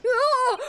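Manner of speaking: short, high loud cry; startled scream. Acted. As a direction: cry out in acted alarm. Witness cries out.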